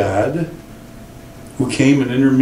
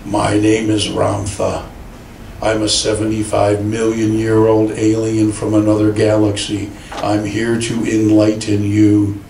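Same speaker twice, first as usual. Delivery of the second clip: a hint of a solemn channeled spirit; Ramtha's voice; 4 semitones lower than usual. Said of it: "the man's voice would say".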